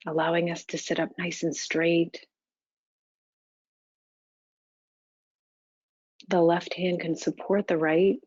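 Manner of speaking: calm, even meditation guidance with long pauses; unhurried, level meditation-teacher delivery; guided meditation. Real, not acted. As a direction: guide them gently into stillness, leaving space between phrases.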